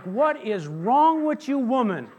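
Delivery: high, loud, laughing outrage at the nurse; fake-offended, cracking up; mock indignant retort. Husband pretending to scold nurse, laughing mock outrage. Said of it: "No, I just didn't say that".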